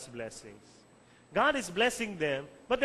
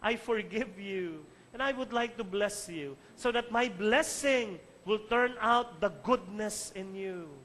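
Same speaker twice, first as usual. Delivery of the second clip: God speaking tenderly. Acted. God telling the listener of forgiveness, tenderly. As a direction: give each phrase room, as a loving assurance. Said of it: "God is telling you".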